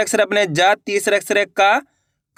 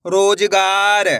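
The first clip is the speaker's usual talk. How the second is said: slow spelling; much slower than usual. Shown as a demonstration. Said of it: "अपन एक एक करके शब्दों को पढ़ेंगे".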